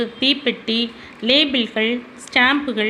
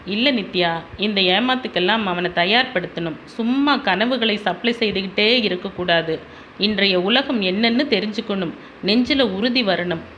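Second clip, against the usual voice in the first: stern father; 3 semitones lower than usual. Acted.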